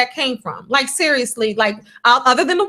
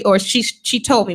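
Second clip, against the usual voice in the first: usual speaking voice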